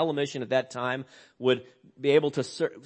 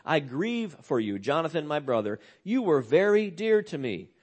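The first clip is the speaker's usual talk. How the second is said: softer, intimate grief for a brother; quiet, personal lament. Shown as a demonstration. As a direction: say it softly as your own loss. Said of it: "Speaking very personally".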